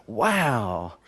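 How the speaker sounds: long, drawn-out wow; mock amazement. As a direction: say it as if hugely impressed, mockingly. Mocking a rival's boast.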